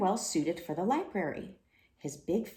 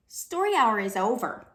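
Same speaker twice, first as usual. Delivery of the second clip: higher, lightly voiced little girl; a small child telling him plainly; 4 semitones higher, 6 dB louder than usual. Little girl tells the lion, lightly voiced child. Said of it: "a little girl told him".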